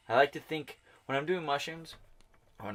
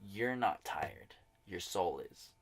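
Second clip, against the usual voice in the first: slow, hushed inner voice; a soft inner voice giving a calm truth; 4 dB quieter, slower than usual. Retold or imitated. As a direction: speak it slowly like a quiet voice in your head. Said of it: "this other voice was like".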